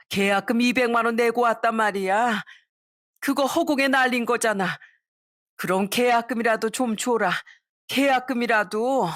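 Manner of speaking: lightly voiced whining plea for money back; mild mock tearful begging; begging mother-in-law. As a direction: drunk mother-in-law pleading with son-in-law for her deposit. Crying mother-in-law begs deposit.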